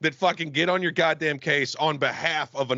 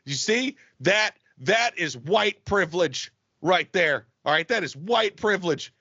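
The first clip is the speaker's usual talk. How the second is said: mock preachy guy; 3 semitones higher than usual. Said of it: "somebody looked at me and said".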